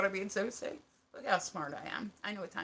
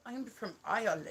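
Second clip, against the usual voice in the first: lightly put-on, inaccurate Irish accent; a hint of bad mock Irish accent; fake Irish accent; 2 semitones higher than usual. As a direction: imitate a guy faking an Irish accent. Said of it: "would fake an accent".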